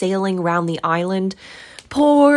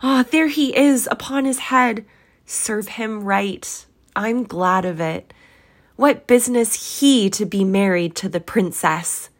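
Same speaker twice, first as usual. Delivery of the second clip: high, excitable, earnest outpouring; between laughing and crying; 9 semitones higher, 5 dB louder than usual. A narrator's reading. Scrooge points out story figures to the ghost, overexcited. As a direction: rattle on in a high, overwrought voice. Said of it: "most extraordinary voice between laughing and crying".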